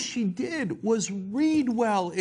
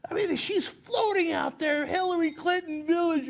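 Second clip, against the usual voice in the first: adrift Palin parody; 9 semitones higher than usual. Retold or imitated. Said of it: "if she's taken off that prompter".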